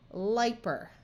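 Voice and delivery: "Liper" with first syllable like "lie"; long I sound. Shown as a demonstration. Teacher trying a nonsense word, "Liper" with a long I. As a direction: read "Liper" as LIE-per. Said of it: "long I sound will be likely the right one".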